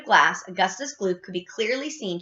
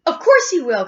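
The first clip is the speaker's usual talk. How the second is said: high, loud insistence; crying out; 6 semitones higher, 8 dB louder than usual. A narrator's reading. Missus Gloop argues back at Wonka, crying out. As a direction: insist forcefully. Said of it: "cried Missus Gloop".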